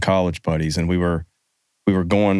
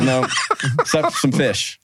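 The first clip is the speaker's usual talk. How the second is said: laughing through the words; slow, high with a chuckle; 4 semitones higher than usual. Real, not acted. Joking about contraband.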